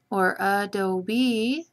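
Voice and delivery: "adobe" slow, leaning on the opening "uh"; slow "adobe" stressing the opening schwa; schwa emphasis. Shown as a demonstration. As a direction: draw out "adobe" to show its schwa. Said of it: "That begins with a schwa".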